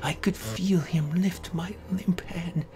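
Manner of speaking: ordinary delivery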